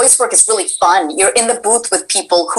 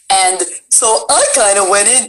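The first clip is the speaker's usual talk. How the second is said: dumb chicken voice. Shown as a demonstration. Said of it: "the chicken gonna talk like this".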